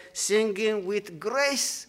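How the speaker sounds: "grace" drawn out and lifted; slow the phrase and underline "grace"; stress on grace. Shown as a demonstration. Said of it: "Please underline that word grace".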